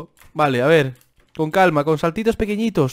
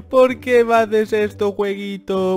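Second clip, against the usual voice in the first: mock whining; 4 semitones higher, slower than usual. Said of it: "Yo solo quiero llorar".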